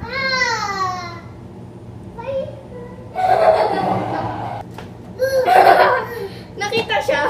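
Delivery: loud giggling shrieks; laughing squeal. Real, not acted. Toddler found in hide-and-seek, squealing with laughter.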